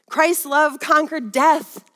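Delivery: slow, weighty preaching; slow, deliberate pulpit proclamation; emphatic declaration. Real, not acted. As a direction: draw each word out with conviction.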